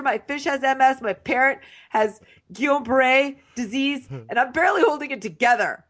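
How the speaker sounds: hammed-up martyr addressing the group; mock wounded announcement. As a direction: imitate someone making an aggrieved speech. Voicing Josh's self-pitying announcement.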